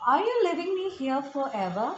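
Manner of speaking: a touch of panic, slowly read. A narrator's reading. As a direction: read it as a slow, mildly panicked plea. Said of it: "She cried out in panic".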